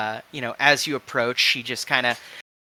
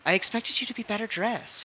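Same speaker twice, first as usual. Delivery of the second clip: disdainful appraisal; 9 semitones higher, 7 dB quieter, faster than usual. Acted. Stylish stranger sizes up player character.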